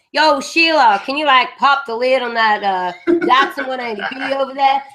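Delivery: hammed-up broad bogan Aussie voice; mock ocker Australian accent. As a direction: lay the ocker Aussie on thick, mocking developers. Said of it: "We don't walk around here like".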